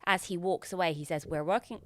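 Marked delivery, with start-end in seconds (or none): 1.3-1.8 put-on tentative go at a character's accent; Roman's accent, abandoned attempt. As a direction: start the accent, then give up. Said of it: "I can't do the accent".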